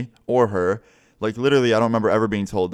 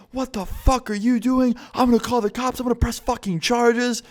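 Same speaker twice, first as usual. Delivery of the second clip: imitating outraged mom; 13 semitones higher than usual. Girlfriend's mom catches someone keying her car, high mock-outraged imitation. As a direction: put on a furious mom's high voice.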